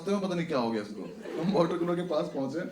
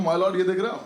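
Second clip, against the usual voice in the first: mock lawyer pleading; 2 semitones higher, 7 dB louder than usual. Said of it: "कह रहा".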